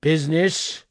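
loud, rising ghostly outcry; anguished cry. A narrator's reading. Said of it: "cried the ghost".

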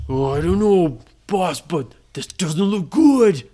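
lightly voiced worried deckhand; pirate crewman. Crew warning their boss about the fire, lightly voiced pirate crewman. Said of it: "all of his crew said".

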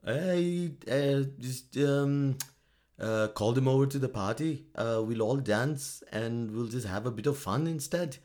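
hesitant mock Finnish-accented leader. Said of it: "that accent that I'm doing".

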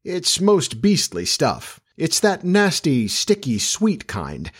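slow, drawn-out disgust; shuddering distaste. A narrator's reading. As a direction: dwell on each horrid word, starting high. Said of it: "he said, shuddering".

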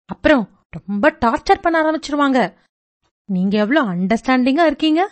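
put-on a teenager brushing off her mother's ways; dismissive teen girl. Teen girl complaining to aunty about her mother, quick and dismissive.

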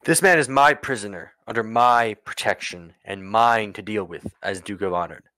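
firm, deliberate ruler laying down the law; stern and emphatic, leaning on each claim; commanding Duke. Acted. Duke asserts his authority over the prisoner, commanding.

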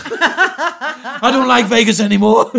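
slow, laughing whiny wail; whiny sob. Retold or imitated. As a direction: wail it like a sulking child. Whiny drunk complaint.

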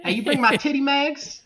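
put-on hillbilly old man. Master Roshi as hillbilly.

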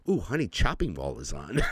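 giggly excited coo; laughing delight. Retold or imitated. Telling his wife the horror film is on, giggling with delight. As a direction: savor it like a treat.

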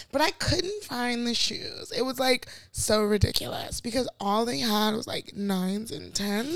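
lightly voiced white lady who smokes; a hint of a smoky white lady. Shown as a demonstration. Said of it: "You sound like a white lady that smokes".

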